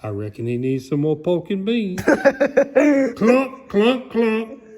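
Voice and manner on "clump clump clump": higher, loud stomp sounds; mock stomping clumps. Reading to a child, stomping out Mister Noisy's steps. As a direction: stomp each word like heavy boots.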